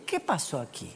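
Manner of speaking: mild soft invitation; gentle asking. Shown as a demonstration. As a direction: ask kindly and softly, as if to a friend. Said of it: "preguntarle a la persona primero".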